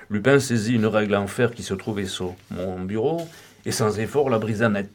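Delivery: plain reading voice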